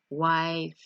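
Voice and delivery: "Wife." with the final f blown out long; demonstrated F sound. Shown as a demonstration. Teacher modelling a sound to practise in a mirror, exaggerated f. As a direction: say "Wife." with a long, airy f at the end. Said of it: "and say".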